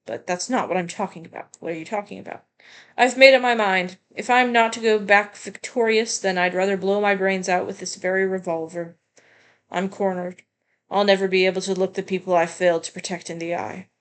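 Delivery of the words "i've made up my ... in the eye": a touch of loud despair; character voice. Acted. Cornered character vowing in despair, a touch louder. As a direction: swear it out, cornered.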